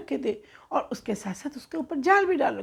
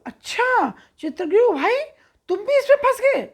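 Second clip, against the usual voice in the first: much higher, louder teasing with a laugh; mocking laugh; 10 semitones higher, 6 dB louder than usual. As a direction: laugh at the trapped friend while teasing him. Crow mocks the trapped pigeon leader. (कौवा फंसे हुए कबूतरों के सरदार को हँसते हुए चिढ़ाता है)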